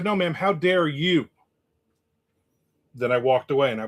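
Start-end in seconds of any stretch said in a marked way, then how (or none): 0.0-1.3 slow, deliberate comeback, leaning on how; No, ma'am, how dare you, said slowly and firmly; slow firm retort. Retold or imitated. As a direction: throw it back slowly, calm but pointed. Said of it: "I said".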